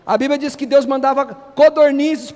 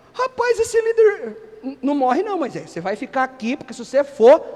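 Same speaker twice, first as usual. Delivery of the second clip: imagined Josué pleading. Retold or imitated. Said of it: "eu fico imaginando Josué".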